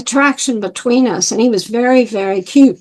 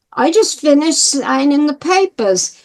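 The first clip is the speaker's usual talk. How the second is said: imitated New York man; mimicking a New Yorker's matter-of-fact news; heavy New York accent; 3 semitones higher than usual. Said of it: "very heavy New York accent".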